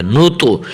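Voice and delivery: نو تو with a thick T echoing at the end; heavy bounced ta. Shown as a demonstration. Teacher shows qalqala, نو تو with bounced T. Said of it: "آخر میں اس کی ادائیگی کا ظاہر ہونا".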